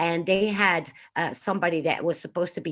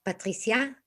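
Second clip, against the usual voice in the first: French name, pitched higher, lifted ending; French accent; 4 semitones higher, 4 dB quieter than usual. Acted. Repeating her name for the co-host, French accent. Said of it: "stick with the, uh, French, uh, accent".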